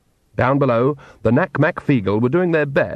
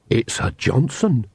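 breathed; slower than usual. Acted. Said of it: "she breathed".

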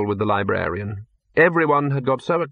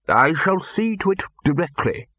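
smooth lie; 5 semitones higher than usual. Acted. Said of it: "lied the bursar smoothly".

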